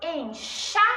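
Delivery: "Enxadas" split as en, XA, das; stressed syllable demo. Shown as a demonstration. Teacher shows the tonic syllable, "Enxadas" broken en-XA-das. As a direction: sound out "Enxadas" by syllable, leaning on xa. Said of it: "chá também é a sílaba tônica".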